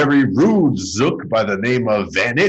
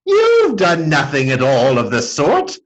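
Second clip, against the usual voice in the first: laughing; 3 semitones higher, 3 dB louder than usual. A narrator's reading. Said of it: "He just laughed".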